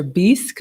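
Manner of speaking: bisque said "beesk", with a long ee; mispronounced bisque. Real, not acted. Host reading lobster bisque off the menu, mispronounced as "beesk". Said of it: "oh, bisque, I'm sorry".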